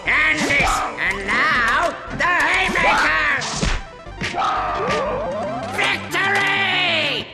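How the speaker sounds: triumphant shouting. Acted. Villain gloating in fight.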